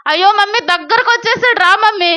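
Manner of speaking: put-on high-pitched little boy calling mum; acted childish urgency; urgent pleading child. Child calls mother more urgently.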